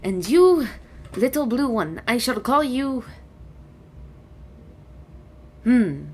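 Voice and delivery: lightly voiced dragon, pondering with long pauses; dragon, pleased. Dragon names the visitors, mildly pleased and deliberate. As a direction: bestow each name as a stately dragon.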